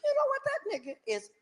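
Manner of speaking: it suddenly dawns on him; realization. Real, not acted. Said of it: "I got to thinking about it".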